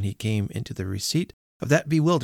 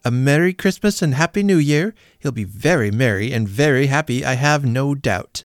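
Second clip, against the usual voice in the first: louder, higher mock-cheery toast; sarcastic toast; 5 semitones higher, 5 dB louder than usual. A narrator's reading. Wife to family, loud sarcastic grudging toast. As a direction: toast him through clenched sarcasm.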